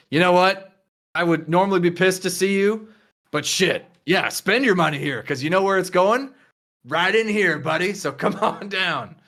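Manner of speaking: cocky casino host. Acted. Gideon greets Enzo at the casino.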